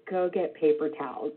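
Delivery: calm repeat. Retold or imitated. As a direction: say it again just as calmly. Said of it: "looked at me very calmly and said".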